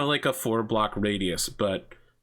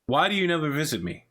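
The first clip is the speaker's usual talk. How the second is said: gushing father; 4 semitones higher than usual. Acted. Father again.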